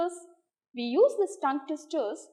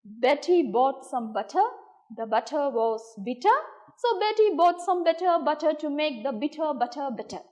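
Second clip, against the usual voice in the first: the same twister, a little faster; tongue twister speeding up. Shown as a demonstration. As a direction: push the pace up a notch. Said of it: "Now I'll go a little faster".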